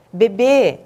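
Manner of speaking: lightly mock-formal, slow and measured; acted formal address to a baby; mock correct speech. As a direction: spell it out slowly like an over-correct parent. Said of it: "tenho que falar sempre corretamente".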